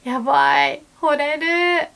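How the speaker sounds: high, loud swooning cry; smitten exclamation. Shown as a demonstration. Complimenting a friend, high and lovestruck. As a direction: gasp it out, lovestruck. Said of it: "you can also say".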